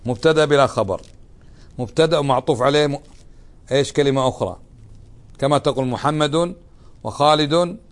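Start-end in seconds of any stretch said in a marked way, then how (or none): 5.9-7.8 "وخالد" with a hanging rise, waiting for more; unfinished list. Shown as a demonstration. Teacher showing an incomplete sentence. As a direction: leave "محمد وخالد" hanging. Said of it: "طيب إيش".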